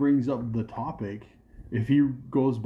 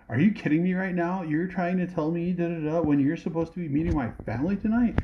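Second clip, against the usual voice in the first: higher, incredulous mock outrage; imitating girlfriend's indignant comeback, pitched higher; 5 semitones higher than usual. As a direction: play the girlfriend flipping the blame on him. Girlfriend turning blame on him.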